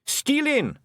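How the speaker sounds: high proud clan yell; shout. Acted. The blue men shouting their boast to their chief. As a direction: bellow it out as a boast. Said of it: "shouted the blue men".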